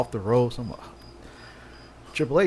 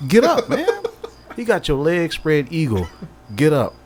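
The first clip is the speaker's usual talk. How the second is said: self commentary; 5 semitones higher, 5 dB louder than usual. Retold or imitated. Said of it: "it's like I'm doing commentary on myself".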